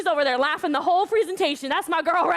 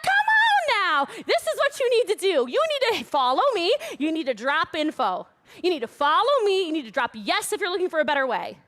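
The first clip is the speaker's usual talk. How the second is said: bossy demand. Shown as a demonstration. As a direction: order them to follow, insistently. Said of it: a nod to the speaker's boss nickname.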